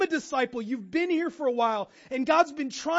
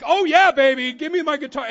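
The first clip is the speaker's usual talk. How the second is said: hammed-up rocker glee; 4 semitones higher, 12 dB louder than usual. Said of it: "Mark Hoyle's like".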